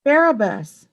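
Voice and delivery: crowd roar, high and loud; the mob bellowing their choice. A narrator's reading. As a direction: bellow the name. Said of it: "it bellowed".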